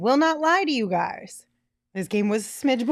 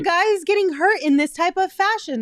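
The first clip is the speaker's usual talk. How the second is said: upset and raised, higher; 8 semitones higher, 4 dB louder than usual. Real, not acted. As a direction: get upset about the injury. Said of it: "I'm just upset".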